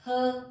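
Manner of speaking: her said as a lone, punched 'huh'; isolated h sound. Shown as a demonstration. Teacher giving learners the letter's sound, isolated h. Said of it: "और ह इसका sound है".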